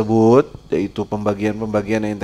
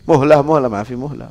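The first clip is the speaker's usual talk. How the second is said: pleading rich man; 3 semitones higher, 4 dB louder than usual. Retold or imitated. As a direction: beg desperately for a delay.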